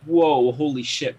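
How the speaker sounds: slow, drawn-out amazed whoa; retelling his shock at the Red Wedding, slowly amazed; stunned reaction. Retold or imitated. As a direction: let the shock sink in slowly.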